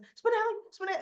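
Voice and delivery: mock call, pitched high and loud. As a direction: call his name across the room, hammed up. Calling out to a man.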